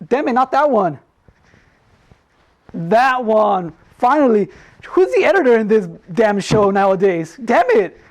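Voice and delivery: mock exasperation. Host fumes at the editor for showing the wrong clip, exasperated. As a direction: play it like the intern botched it again.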